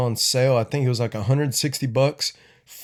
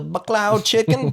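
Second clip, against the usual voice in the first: put-on Asian accent, higher pitched; exaggerated Asian-accent impression; 10 semitones higher than usual. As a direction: order food in a mock Asian accent. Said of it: "I can do the Asian accent".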